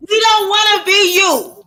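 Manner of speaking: angry shout. Real, not acted. Woman shouting down the man in the argument, angry. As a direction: throw it back at him, shouting.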